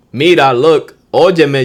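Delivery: Mira punched loud and high; loud starter phrase. Shown as a demonstration. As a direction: call out to get her attention. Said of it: "Starter phrase".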